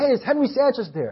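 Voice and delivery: put-on caller voice. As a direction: imitate a caller asking for someone. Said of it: "I'm just pretending that he talks like that".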